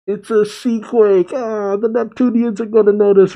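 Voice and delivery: thrilled as the pieces fit; excited. Real, not acted. Excited realization.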